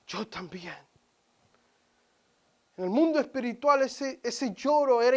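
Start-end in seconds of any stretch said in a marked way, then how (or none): 0.1-0.8 soft echo. Acted. Boy's cry recalled softly.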